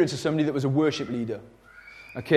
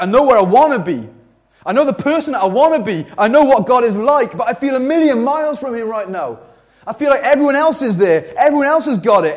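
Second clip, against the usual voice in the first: high, loud, impassioned lament; raised-voice plea of someone left behind; anguished outcry; 6 semitones higher, 5 dB louder than usual. Acted. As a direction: cry out in frustration at feeling far from God. Acts out the psalmist's spiritual despair.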